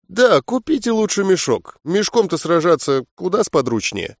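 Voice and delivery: encouraging smile with a sly edge; sly mockery. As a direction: tease him with a sly smile. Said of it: "улыбаясь поощрительно, но с долей ехидства".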